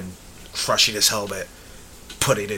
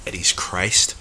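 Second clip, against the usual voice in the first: plain, understated delivery; matter-of-fact; 3 semitones lower, slower than usual. Real, not acted. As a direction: state it as simple fact. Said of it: "was just so matter of fact".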